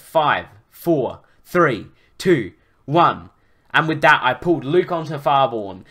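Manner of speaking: animated, emphatic story reading; story narration. A narrator's reading. Narrator recounting a dragon rescue to listeners, animated storytelling. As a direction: read the adventure out with drive.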